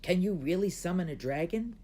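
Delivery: a hint of a small eager boy; little brother asking his sister, eager. A narrator's reading. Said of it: "asked little Gao".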